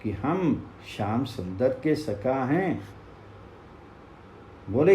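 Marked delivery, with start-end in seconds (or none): 0.1-2.9 put-on distant echo answering the boys. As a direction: let it come back faint as if from far off. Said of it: "वहाँ से भी आवाज आई".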